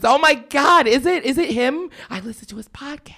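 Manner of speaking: high-pitched fangirl squeal of recognition, starting loud; mimicked excited fan. Fan grabs his arm on realizing who it is, mimicked high excitement. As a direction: imitate a starstruck fan, voice way up. Acting out a stunned fan's reaction.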